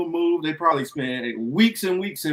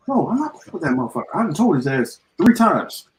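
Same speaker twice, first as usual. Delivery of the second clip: Bowman; 2 semitones higher than usual. Acted. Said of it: "I'm Bowman".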